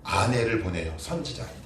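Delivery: ordinary talk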